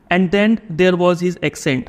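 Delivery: reading the text aloud at a crawl; slow passage reading. A narrator's reading. Teacher reading the passage to students, slow and deliberate. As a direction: read each word slowly for the class.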